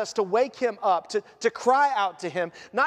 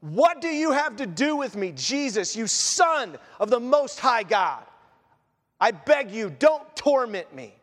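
mildly raised voice of a raving man; understated acted outcry, begging and insistent; loud cry. Possessed man pleading with Jesus, mildly loud cry. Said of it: "said in a loud voice".

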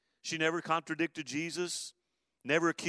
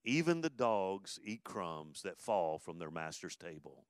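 slow humble plea; 6 semitones lower, 4 dB quieter, slower than usual. Retold or imitated. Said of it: "says in verse twenty-seven".

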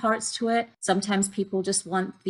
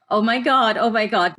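retold panic; 3 semitones higher, 4 dB louder than usual. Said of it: "I was like".

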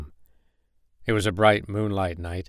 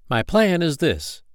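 slow, higher, conspiratorial announcement; old firefly plotting; 8 semitones higher, slower than usual. Acted. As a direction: savour the reveal, drawn out.

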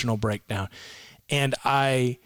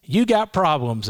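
lightly voiced old Southern counselor, pitched up; a hint of an old Southern gentleman, higher; 5 semitones higher, 3 dB louder than usual. Counselor to a troubled client, lightly voiced old Southern gentleman. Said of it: "he's a nice old Southern gentleman".

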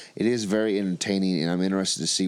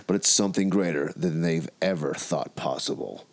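narrator voice; 3 semitones lower than usual. Acted. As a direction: read it like a movie trailer. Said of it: "in your best narrator voice".

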